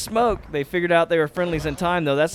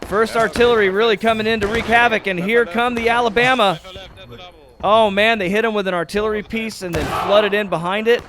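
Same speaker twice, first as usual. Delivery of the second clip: excited play-by-play; 4 semitones higher than usual. Real, not acted. Caster calls the artillery charge.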